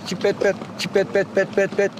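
chipped, evenly repeated finch syllables; bird song demo. Shown as a demonstration. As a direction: imitate a finch's repeated pet notes. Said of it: "altılı yedili". (saka ötüşü taklidi)

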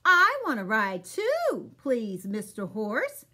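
a little pig begging not to be left; pleading pig. Acted. Pig begs the horse to ride too, high and loud. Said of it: "says Pig".

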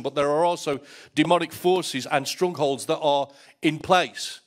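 insistent sermon delivery building in force; preaching at full force. Acted. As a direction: drive the point home to the congregation.

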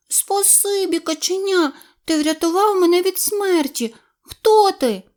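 high, small kitten voice; a shy wet kitten says thanks; grateful kitten. A narrator's reading. Kitten thanks the duckling in a high voice.

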